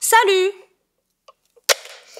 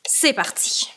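whispered; 4 semitones lower, 7 dB quieter than usual. Acted. Starting a deep breath together.

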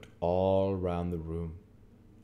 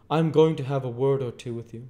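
stern lawyer Jaggers; 8 semitones higher, 10 dB louder than usual. A narrator's reading. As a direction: hold the witness with a hard stare. Jaggers voiced in reading.

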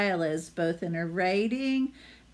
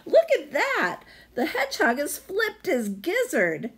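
higher, loud, jeering gander voice; mocking gander; 10 semitones higher, 5 dB louder than usual. The gander laughs at Hedgie's stocking hat, loud mocking jeer. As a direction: jeer at the hedgehog.

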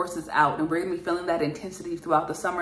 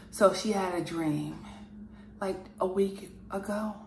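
a touch more solemn and deliberate, with pauses between phrases. Acted. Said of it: "So we'll have him next".

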